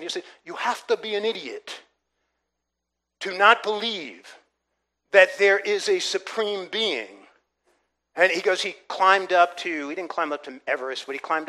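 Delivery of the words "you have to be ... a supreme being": imitated English accent on a firm verdict. Preacher quoting a scholarly Englishman he witnessed to, English accent. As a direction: quote him in an English accent. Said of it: "he said, in his English accent".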